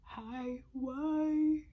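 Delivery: half-acted sobbing lament; retold distress. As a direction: replay the moment of heartbreak. Crying in her car over betrayal.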